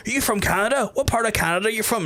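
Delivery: mock curious taxi driver; quizzical taxi driver. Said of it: "folks are like".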